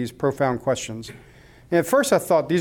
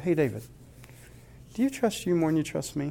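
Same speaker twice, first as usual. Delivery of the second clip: soft and kind, quieter; lovingly ask, as a caring father; gentle whisper-soft question; gentle, loving voice of God; 8 dB quieter than usual. Retold or imitated. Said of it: "He really very lovingly, kindly, and gently said".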